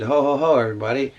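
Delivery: lightly hammed-up stage devil announcing himself; devil's entrance. Announcing himself to the audience as a mild stage villain. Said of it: "whenever a character came in and said".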